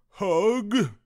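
high, loud eager question; hopeful asking. A narrator's reading. Douglas spotting someone familiar, high eager question.

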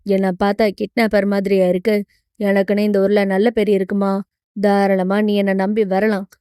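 low-voiced hero vouching for himself; hero, reassuring. (கதாநாயகனின் தாழ்ந்த, நம்பிக்கையூட்டும் குரல்)

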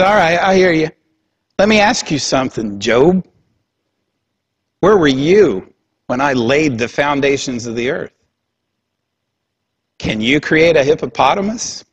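God mildly pissed, questioning Job; irritated God. Retold or imitated. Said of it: "He's kind of pissed".

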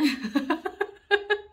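loud, high cackling laugh; real laugh bursting out; burst of laughter. Real, not acted. Storyteller cracks up at own crude punchline, laughing hard.

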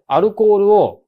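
アルコールを平たく高めに; 日本語読みで強く; カタカナ平坦. Shown as a demonstration. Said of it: "後ろアクセントだとどうなんの". (誤った強勢)

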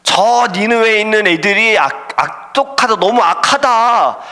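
voice of God. Acted. God calling Jonah to go to Nineveh, commanding voice. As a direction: call the prophet with weight and urgency. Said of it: "하나님이 갑자기 요나에게 음성으로 말씀하신".

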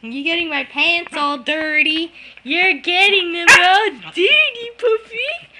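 high, loud playful scolding; squeaky scolding a dog. Real, not acted. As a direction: tease the puppy in a squeaky voice.

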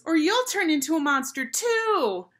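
put-on very high, loud little-girl voice; mock-frightened schoolgirl shriek; shrill warning. A narrator's reading. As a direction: cry out a panicked warning. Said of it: "warned a girl with pink glasses".

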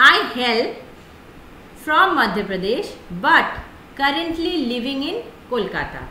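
slow, carefully spoken example; slow model sentence. Shown as a demonstration. Teacher models her own introduction for students, slow. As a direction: model the sentence slowly for learners. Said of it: "जैसे अगर मैं बोलूँ तो".

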